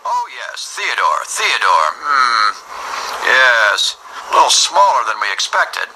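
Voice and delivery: mildly doubtful dispatcher; pondering dispatcher. Acted. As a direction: size up the newcomer, stretching the name.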